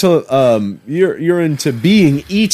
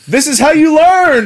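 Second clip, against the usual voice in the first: high, loud stern dad; tough dad voice; 10 semitones higher, 4 dB louder than usual. Retold or imitated. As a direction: bark it like a tough-love father.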